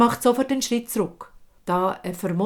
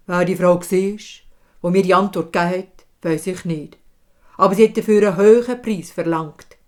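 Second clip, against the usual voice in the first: firm king; 7 dB louder than usual. Acted. King answers loudly.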